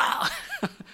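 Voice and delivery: very high burst of laughter; laughing. Real, not acted. Preacher bursts out laughing at his own joke. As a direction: crack up.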